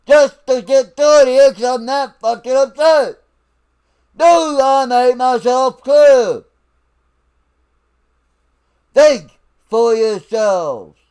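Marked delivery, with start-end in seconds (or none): 4.1-6.4 stern barked question, slow; drill sergeant voice. Real, not acted. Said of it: "I'm having to break out my fucking drill sergeant voice". 8.9-11.0 slow stern order; drill sergeant voice. Real, not acted. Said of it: "I'm having to break out my fucking drill sergeant voice".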